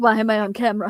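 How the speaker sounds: put-on pet cat voice. Voicing the cat Beerus being filmed: voicing the cat Beerus. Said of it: "Beerus is like".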